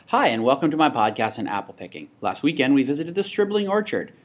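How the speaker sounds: brisk, upbeat podcast intro read; quick podcast voiceover. Shown as a demonstration. Host welcomes listeners to an apple picking podcast, quick voiceover. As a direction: keep it quick and consistent, a touch lifted. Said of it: "I tried really hard to keep my, my talking quick and consistent".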